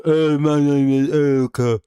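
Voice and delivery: mock a wife with a gravelly voice, stretching it out; deep gravelly wife. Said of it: "his wife has a very deep, gravelly voice".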